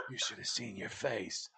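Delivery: slow, low, soft mock taunt; hushed retold teasing. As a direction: drop the jab quietly and take your time. Same jab retold, second take.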